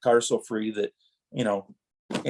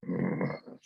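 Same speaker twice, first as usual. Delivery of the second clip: grudging hum; 10 dB quieter than usual. Retold or imitated. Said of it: "it took everything for me to go".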